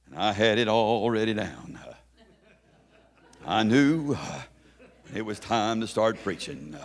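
rhythmic holler with a gasped "uh" closing phrases; old-time preaching voice. Acted. Boy playing church on a picnic table, old-time preaching. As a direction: stretch the phrases slowly into a preaching cadence. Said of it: "I had the preaching voice down".

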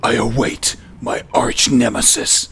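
hushed brooding hero; superhero voice. Acted. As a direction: whisper the vow like a caped hero. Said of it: "That's my superhero voice".

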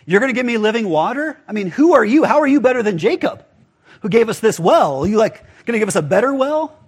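mock-incredulous questioning, lightly acted; retold challenge. Samaritan woman throwing a line at Jesus, lightly challenging. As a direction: retell a sceptical challenge thrown at someone. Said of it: "even threw that line at Jesus".

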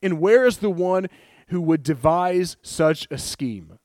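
high, loud outraged king, slowing at the end; king's outraged demand. Retold or imitated. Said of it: "he spoke up and said".

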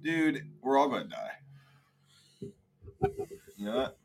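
slow breathy whisper. Real, not acted. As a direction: hush it out slowly. Dramatic aside about death.

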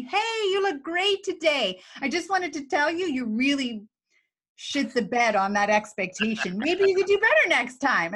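fake cheerful boss. Boss fakes cheer while criticizing worker, sing-song mock brightness.

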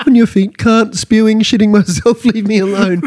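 wheezing, beaten, half laughing; winded player. Retold or imitated. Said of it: "they'll be like".

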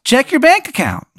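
very high-pitched cartoon character voice; high put-on mascot voice; Tim the Tooth. Tim the Tooth speaks in game story.

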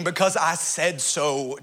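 slow, deliberate because I said so; mother's stock reply. Retold or imitated. Mother shutting down her son's questions, slowed and deliberate. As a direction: stretch out because like a mother ending the argument. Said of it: "my mother was into saying".

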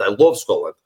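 casual Scottish; Scottish accent. Shown as a demonstration. Actor recalling a trip to Scotland, Scottish accent. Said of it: "I do Scottish a little bit".

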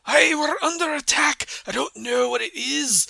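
loud, high pirate dwarf shout; pirate dwarven accent. Acted. Pirate calling back to the player under attack, loud pirate dwarven accent. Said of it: "his, like, pirate dwarven accent".

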